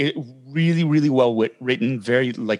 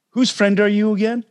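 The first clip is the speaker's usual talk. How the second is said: Carl Weathers impression; 8 semitones higher than usual. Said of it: "that's my Carl Weathers".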